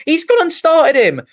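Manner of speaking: stunned outburst at the team sheet; surprised. Real, not acted. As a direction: exclaim it, can't believe it. Striker unexpectedly picked.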